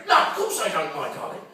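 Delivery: high-pitched mock-innocent reassurance; acted sweet denial, pitch climbing; protesting boyfriend. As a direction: plead innocence to your girlfriend, hammed up. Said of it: "you say".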